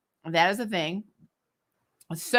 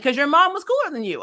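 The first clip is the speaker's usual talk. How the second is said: laughing retort; 6 semitones higher than usual. Retold or imitated. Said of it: "I'm like".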